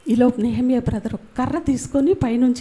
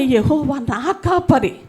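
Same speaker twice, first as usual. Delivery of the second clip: slow verse; slower than usual. Shown as a demonstration. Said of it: "అందుకని".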